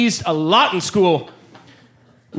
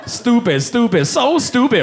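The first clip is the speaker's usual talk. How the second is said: put-on higher, scornful jeer in a Chinese accent; mock the kid in a put-on Chinese accent; 4 semitones higher than usual. Chinese classmate insulting Byron, mock Chinese accent. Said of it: "doing that voice".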